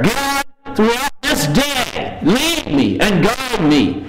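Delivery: sample prayer. Pretend. Preacher modelling a daily prayer for the congregation, slow and gentle. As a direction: pray "lead me and guide me" slowly and tenderly. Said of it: "as long as you have that prayer".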